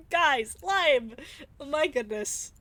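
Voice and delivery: loud gleeful squeal; excited laughing shout. Real, not acted. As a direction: call it out with a burst of delight. Excited about the green character.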